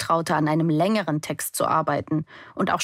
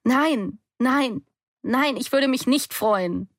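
yelled answer; 6 semitones higher, slower than usual. A narrator's reading. Daughter on the tower, yelling her too-late answer. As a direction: shout the denial up the tower. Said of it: "brülle".

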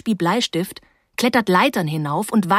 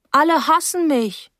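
put-on higher, louder childish wail; sulking girl voice, a little louder; whiny child; 8 semitones higher, 4 dB louder than usual. Girl sulking to Paula, higher childish whine.

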